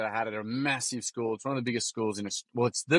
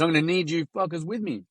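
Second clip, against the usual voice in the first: pitched-up Kiwi boy impression; Kiwi accent; 6 semitones higher than usual. Kiwi boy asks his mates for support, higher Kiwi accent. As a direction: make the appeal in a Kiwi lad's voice. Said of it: "Excuse my Kiwi accent".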